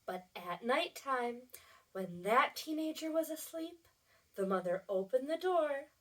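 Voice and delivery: soft, secretive bedtime narration; hushed read-aloud. A narrator's reading. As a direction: tiptoe through it so nobody wakes. Hushed night scene for children.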